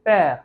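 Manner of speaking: "पैर" said as French père, with an open è; French pronunciation demo. Shown as a demonstration. Teacher repeating the French word for father, careful pronunciation. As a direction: model "पैर" again with a clear open è. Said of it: "the French term for father".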